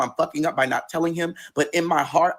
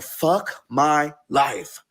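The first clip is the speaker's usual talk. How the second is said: drawn-out despair; much slower than usual. Retold or imitated. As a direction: stretch "Fuck my life" out, defeated. Despair at the breakup.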